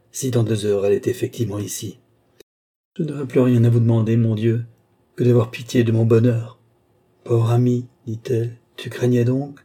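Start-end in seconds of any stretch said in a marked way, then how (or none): 0.1-6.6 louder, faster, pleading exclamation; fervent outcry. Acted. Balsamo on his knees crying out to God, fervent and faster. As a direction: rush it out as a prayer of joy. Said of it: "s'écria-t-il".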